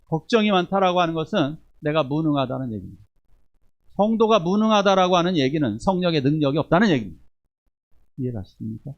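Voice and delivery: ordinary talk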